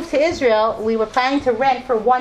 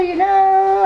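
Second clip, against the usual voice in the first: high-pitched; 9 semitones higher, 5 dB louder than usual. Retold or imitated. Mocking herself giving in.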